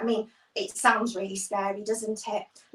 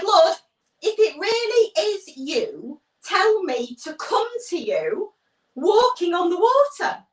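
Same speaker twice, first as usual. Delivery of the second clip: calling out; 5 semitones higher, 4 dB louder than usual. Acted. Peter calling out to Jesus.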